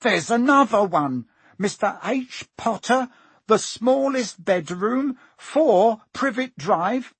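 put-on high, loud boy calling out; slowing, high-pitched announcing shout. A narrator's reading. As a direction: shout it down the hall. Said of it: "and then he shouted".

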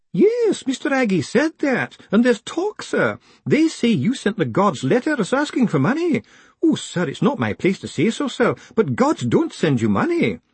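high-pitched weeping clerk voice; tearful old postal clerk. Acted. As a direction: pour out her woes in a wail. Weepy clerk voice.

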